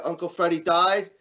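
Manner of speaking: a hint of a kid about to cry; child taking in bad news; upset little kid, lightly voiced. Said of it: "the kid starts crying now".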